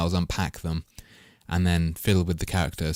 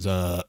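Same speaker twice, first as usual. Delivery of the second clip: throat clear. Real, not acted. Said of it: "sorry for that alien voice".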